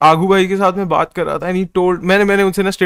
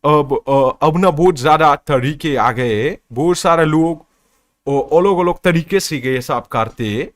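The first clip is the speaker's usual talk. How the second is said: put-on Aagu's accent; 2 semitones lower, faster than usual. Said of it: "तो वो बोलते".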